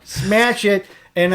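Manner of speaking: "Smash" stretched slowly; emphatic smash. Shown as a demonstration. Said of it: "Is that what you say?".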